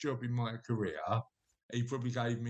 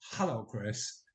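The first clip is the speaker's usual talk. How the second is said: tapering into whisper; 3 semitones lower, slower than usual. Retold or imitated. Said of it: "he was go".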